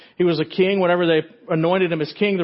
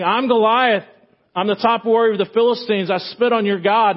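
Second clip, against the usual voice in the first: booming giant taunt; 5 semitones higher, 3 dB louder than usual. Acted. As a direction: boom it out like a bragging giant. Goliath taunting David.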